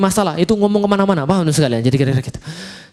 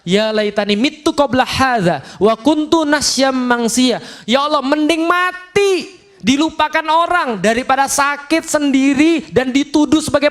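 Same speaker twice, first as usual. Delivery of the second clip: slow, much higher anguished plea; Maryam's lament; 8 semitones higher, slower than usual. Acted. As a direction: cry out wishing for death. Maryam mengeluh kesakitan. (ratapan Maryam yang pilu)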